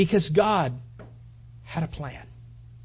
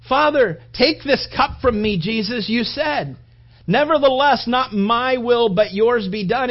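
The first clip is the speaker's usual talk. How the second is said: louder, earnest plea to the Father; voicing Jesus praying; 5 semitones higher, 9 dB louder, slower than usual. Jesus praying in the garden, louder earnest plea. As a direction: pray it as Jesus would, surrendering.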